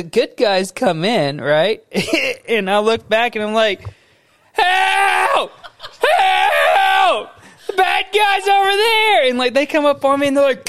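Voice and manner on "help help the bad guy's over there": high, stretched-out calls; mock cries for help. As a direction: play the panicked victim, hammed up. Acting a victim calling for help.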